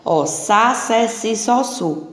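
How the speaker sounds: sa, se, si, so, su said slowly and clearly, each a hissed S; syllable drill. Shown as a demonstration. Teacher drilling syllables: sa se si so su, clearly. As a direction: spell out each syllable for the class. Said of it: "com som de S".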